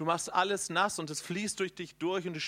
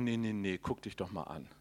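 much lower, softer taunting devil voice; low, hushed mocking voice of the devil; 7 semitones lower, 4 dB quieter than usual. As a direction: sneer it low and soft as the tempter. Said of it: "wenn ich der Teufel wäre".

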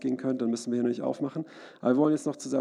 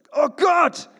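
loud, high shout to heaven; crying out to God; 14 semitones higher, 11 dB louder than usual. Shown as a demonstration. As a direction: yell it out as a desperate plea. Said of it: "schrei zu Gott". (lauter Aufschrei zu Gott)

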